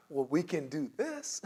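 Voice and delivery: slow, patient counter-offer; unruffled service agent, lifting at the end; measured, upbeat placating; positive spin. Acted. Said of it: "putting a very positive spin on".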